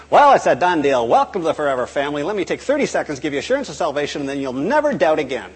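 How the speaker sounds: lightly mocked quick-assurance pitch; glib evangelist. Evangelist sealing the deal with a new convert, glibly upbeat. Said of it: "you're not saying".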